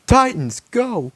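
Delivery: high, loud rallying shout; rally the team to charge; battle cry. Acted.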